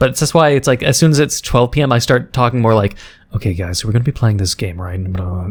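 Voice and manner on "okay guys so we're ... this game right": quiet whisper, lower pitch. Showing how talking goes after midnight: quiet whisper tone. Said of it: "I actual whisper tone".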